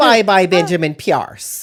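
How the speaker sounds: loud put-on Midwestern mom voice. Saying goodbye to someone dead after the apocalypse: Midwestern mom voice. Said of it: "like a Midwestern mom?".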